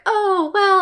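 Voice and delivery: high-pitched, put-on "oh well"; airy, exaggerated giving-up; mock resignation. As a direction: shrug it off in a comic little voice. Voices avatar left behind, shrugging.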